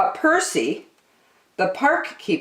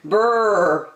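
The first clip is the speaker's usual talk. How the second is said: shivering brrr; 3 semitones higher than usual. Acted. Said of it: "said Percy".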